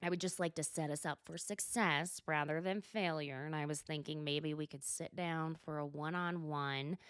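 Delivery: lightly imitated, low and measured; a hint of a low, deliberate character voice; Meredith. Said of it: "And so Meredith says".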